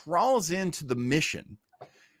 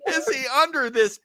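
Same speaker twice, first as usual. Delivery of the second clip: high, hammed-up searching question; playful kids' TV imitation; kids' show host; 11 semitones higher than usual. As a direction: ask it like a children's presenter. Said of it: "like, those kid shows".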